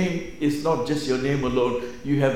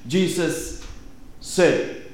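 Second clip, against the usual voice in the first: "Jesus" set apart, then a pause before "said"; stress on JESUS; 5 semitones higher, much slower than usual. Shown as a demonstration. Teaching how a passage reads, stress on "Jesus". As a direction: lean on "Jesus" and hold off the next word. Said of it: "That is the emphasis".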